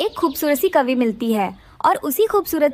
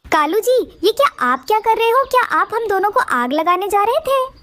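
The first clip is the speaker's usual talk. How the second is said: higher, startled questioning; alarmed shock; 5 semitones higher than usual. Acted. Wife waking to find husband with fire, higher alarmed questioning. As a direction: catch him in the act, alarmed.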